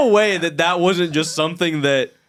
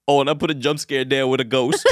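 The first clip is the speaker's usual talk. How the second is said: lower, offhand and proud; director impression; 4 semitones lower than usual. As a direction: toss it off like a proud filmmaker. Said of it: "He goes".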